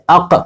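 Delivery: اق, short a then a throaty q; letter sound by blending; joined letter sound. Shown as a demonstration. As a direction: join alif to qaf: اق. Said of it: "پچھلے سے ملا دیں گے".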